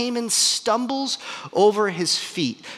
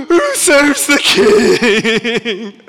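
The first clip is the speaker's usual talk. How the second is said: very slow, loud herald's cry; proclaiming shout; 5 semitones higher, 8 dB louder, much slower than usual. Acted. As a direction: stretch out each word in a public bellow. Haman made to proclaim honor publicly.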